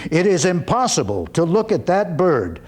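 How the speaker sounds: voiced father. Father in parable speaks.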